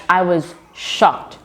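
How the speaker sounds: "shocked" drawn out slowly for emphasis; slow down and lean on "shocked"; stress on shocked. Real, not acted. Vlogger tells viewers her reaction, stressing "shocked" slowly.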